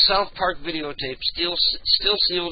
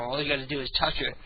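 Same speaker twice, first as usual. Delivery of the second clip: ordinary talk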